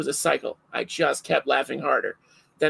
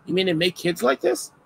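lightly voiced amazed adult, pitched up; a hint of a delighted stranger marveling; mild mock wonder, higher; 7 semitones higher than usual. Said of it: "other adults are gonna be like".

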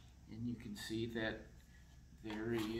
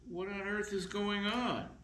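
high, indignant what on earth; a kid catching a thief in the act; startled outrage; 7 semitones higher than usual. Acted. Little vampire catching the tooth fairy, high startled cry. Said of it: "he says".

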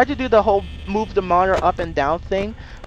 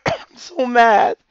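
loud, slow, raised whine of frustration; mad; 6 semitones higher, 7 dB louder, slower than usual. Real, not acted. Gamer just got killed, loudly mad. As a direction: drag it out, loud and high.

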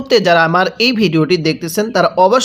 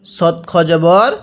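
slow spelling out; much slower than usual. Shown as a demonstration. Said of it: "teacher spelling letters slowly".

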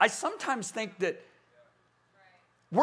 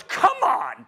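scoffing, louder come on; irritated come on; 5 semitones higher, 6 dB louder than usual. Retold or imitated. Radio caller scoffing in annoyance. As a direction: brush it off with annoyance. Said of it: "He got mad".

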